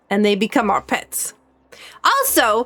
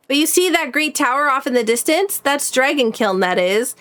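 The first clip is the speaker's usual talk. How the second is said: lightly voiced old blacksmith accent; a hint of a rustic accent; Doric's accent. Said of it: "He has an accent".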